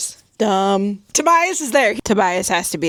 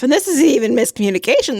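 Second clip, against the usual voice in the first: fast and higher, fired up; exasperated outburst; 5 semitones higher, 3 dB louder, much faster than usual. Real, not acted. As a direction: blurt it out, fed up and fast. Ranting about book characters.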